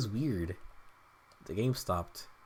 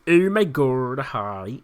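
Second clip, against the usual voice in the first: mock Valley Girl greeting; slower than usual. Fan retrying George Lopez's greeting as a mild Valley Girl. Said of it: "No, I'm saying it wrong again".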